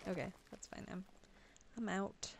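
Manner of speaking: talking through hiccups; hiccuping between words. Real, not acted. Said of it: "excuse my hiccups".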